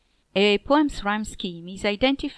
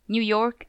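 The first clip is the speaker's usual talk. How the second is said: "New York" with weight on York; light "New", stronger "York" in "New York"; iambic stress. Shown as a demonstration.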